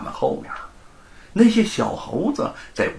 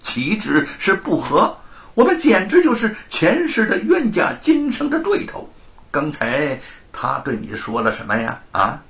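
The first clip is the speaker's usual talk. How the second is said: higher, louder, teeth-clenched rage; gritted-teeth hatred; 7 semitones higher, 3 dB louder than usual. A narrator's reading. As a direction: spit out the hatred. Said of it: "罗庞咬牙切齿道". (咬牙切齿地恨恨说)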